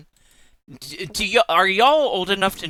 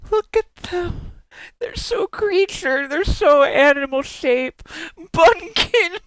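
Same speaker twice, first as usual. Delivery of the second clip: cutesy squealing; 12 semitones higher, slower than usual. Real, not acted. Streamer gushing at a bunny-pumpkin fusion, high squealing baby talk. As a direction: coo at it like a tiny pet, much higher and dragged out.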